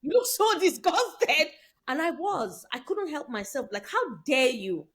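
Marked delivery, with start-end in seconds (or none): 0.0-1.5 higher, slow, drawn-out teasing; mocking tease. Man taunting her about her disgusted face, slow and teasing. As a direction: savour each word like he's taunting her. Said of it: "Oh, sorry".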